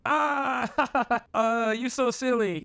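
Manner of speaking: high, giggly mock girl voice; imitating the date laughing it off; mock girly voice. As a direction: play her high and giggly. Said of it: "And she was like".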